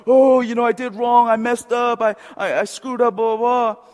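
loud, high mock lament; mock self-blame. Mocks worldly self-blaming repentance.

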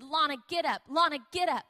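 retold wake-up call, insistent falling phrases; urgent waking call. Wife shaking a sleeping guest awake, urgent. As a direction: rouse a sleeper, mildly urgent. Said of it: "His wife is over me shaking".

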